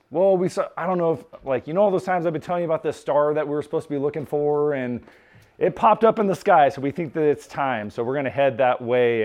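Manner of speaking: mild hammed-up excitement of a wise man; excited husband. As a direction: sell the news to your wife with eager excitement. Husband excitedly explains the star.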